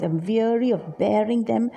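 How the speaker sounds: stressed "weary", stressed "bearing"; emphatic vowels. Shown as a demonstration. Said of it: "it adds so much of emphasis".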